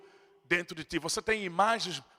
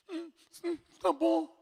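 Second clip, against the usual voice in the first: high, choked little agreement; tearful sniffle; 8 semitones higher, 5 dB quieter, slower than usual. Retold or imitated. Preacher voicing a weeping mother agreeing, high and choked. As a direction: voice her holding back tears. Crying woman voiced.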